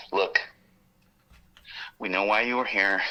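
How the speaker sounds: understated, chilling delivery with a pause after the first word. Retold or imitated. Agent warning a man he stopped, chillingly measured. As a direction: imitate an agent's quiet, measured menace. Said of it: "ooh, chilling, dude, chilling".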